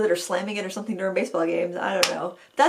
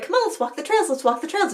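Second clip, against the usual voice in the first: coaxing call; 9 semitones higher than usual. Real, not acted. Calling dog out of woods.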